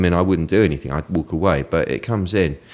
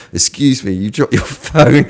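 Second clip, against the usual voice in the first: put-on doddery old guy, higher and louder; Peter Falk as Columbo; 6 semitones higher, 5 dB louder than usual. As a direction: call out slowly like a bumbling old man. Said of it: "like a sort of doddery old guy".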